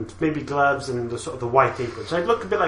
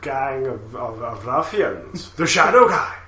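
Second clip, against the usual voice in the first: slow dramatic teaser announcer; episode trailer voice; slower than usual. Acted. Wrapping the show for listeners, slow trailer announcer. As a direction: tease the next episode, drawn out.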